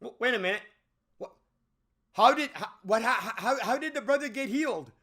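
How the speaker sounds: wait, what, how; incredulous. Retold or imitated. Reviewer voicing his confusion at the brother's recovery, incredulous. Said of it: "And it's like".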